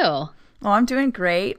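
slow, sultry put-on voice; sexy voice. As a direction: purr it out slowly and seductively. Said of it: "I have my special sexy voice on for you".

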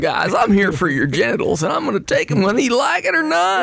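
sudden high squeaky threat; hammed-up alien threat; menacing alien.

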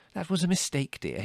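high, gentle motherly defence; smooth over the offence mildly; excusing. A narrator's reading. Mother makes excuses for her son.

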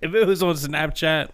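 high-pitched words through a laugh. Real, not acted. Cohost cracking up at his friend's scam story, laughing. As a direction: laugh your way into the sentence.

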